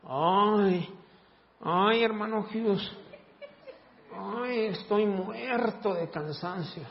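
drawn-out whiny sighing; mock complaining groan. Preacher mocking a worn-out churchgoer, whiny groan. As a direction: moan like a tired complainer.

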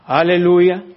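a loud, high "Aleluya" burst out; joyful shout. Real, not acted. Pastor praising God before his congregation, loud and joyful. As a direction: lift it up in praise.

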